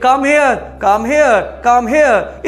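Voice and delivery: "Come here" repeated firmly, each falling at the end; emphatic repeated call. Shown as a demonstration. Teacher showing parents how to call their child over, emphatic repeated call. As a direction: drill "come here" three times with firm emphasis. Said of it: "इस तरीके से आपको बोलना होगा".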